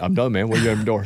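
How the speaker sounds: put-on deep, low-pitched voice. Imitating a singer answering someone at his door: the singer's deep voice. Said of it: "had a deep voice".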